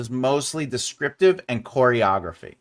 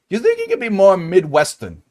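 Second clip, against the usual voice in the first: acted casting note; 6 semitones higher, 6 dB louder than usual.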